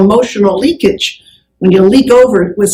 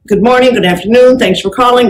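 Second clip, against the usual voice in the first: phone greeting demo. Shown as a demonstration. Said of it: "So you want to say".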